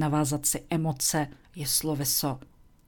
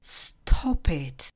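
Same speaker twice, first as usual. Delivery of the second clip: firm command. Shown as a demonstration. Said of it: "přikážete anglicky".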